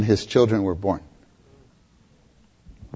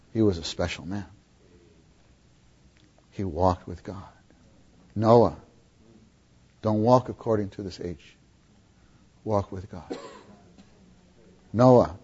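a hint of an earnest elder urging his boy; father counseling son. Father urging young Noah to walk with God, gently earnest. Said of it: "Don't you think he talked like this?".

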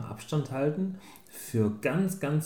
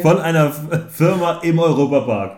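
talking around a candy; sucking a hard candy; 5 semitones higher, 12 dB louder than usual. Real, not acted. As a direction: lozenge in the mouth. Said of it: "der lutscht ein Bonbon".

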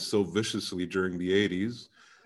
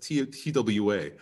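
polite phone operator voice; old-time switchboard operator; 3 dB quieter than usual. Retold or imitated. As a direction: call center greeting voice. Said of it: "My accent is very like".

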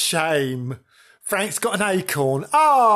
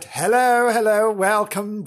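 excited; 6 semitones higher, 4 dB louder than usual. Acted. Eager greeting after reset.

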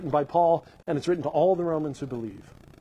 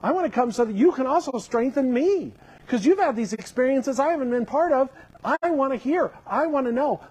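earnest Paul; 5 semitones higher than usual. Acted. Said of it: "he's really clear".

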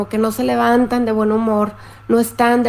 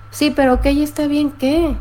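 higher, exasperated challenge; mildly annoyed comeback; 4 semitones higher than usual. Acted. Angry woman pressing the partner who only answers ok, mildly exasperated. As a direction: press for a real answer, a touch frustrated. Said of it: "puedes estar tú muy enojada".

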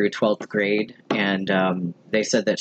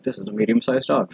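much higher, self-mocking quote; 13 semitones higher than usual. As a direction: squeak it in a high voice. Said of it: "and I'm like".

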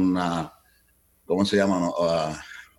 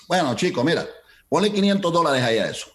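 put-on Cuban accent; 7 semitones higher than usual. The manager granting five hundred dollars, Cuban accent. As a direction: grant it to be rid of him, Cuban style. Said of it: "con el acento cubano".

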